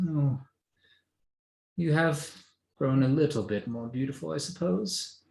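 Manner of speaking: high, backhanded compliment; mother judging her daughter's looks; snooty mother. Acted. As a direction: lift the pitch and sneer it sweetly.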